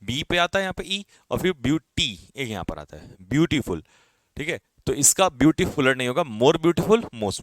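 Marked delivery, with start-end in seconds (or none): 1.5-2.3 ब्यूटी with the टी set apart as its own sound; syllable demonstration. Shown as a demonstration. Teacher counting syllables for students, ब्यूटी sounded out by syllable. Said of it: "दो sound आती हैं".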